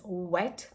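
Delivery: "wet" with rounded lips; W sound. Shown as a demonstration. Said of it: "the W and V sound".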